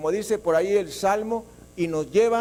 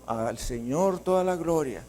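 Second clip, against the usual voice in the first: lower, softer prayerful praise; imitating someone pausing to worship softly; hushed worship; 7 semitones lower, 4 dB quieter than usual. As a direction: drop into quiet adoration mid-letter. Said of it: "y de pronto".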